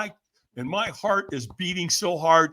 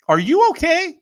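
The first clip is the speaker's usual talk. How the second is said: raised, louder imitated question; concerned stranger's question; 13 semitones higher, 8 dB louder than usual. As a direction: call it out like a puzzled passerby. Stranger checking on him.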